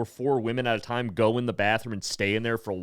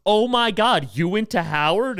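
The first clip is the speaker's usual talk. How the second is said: much higher and louder, thrilled disbelief; imitating excited gasp; 10 semitones higher, 7 dB louder than usual. Audience woman thrilled he went to Howard, mock excited. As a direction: gush like you found a fellow alum.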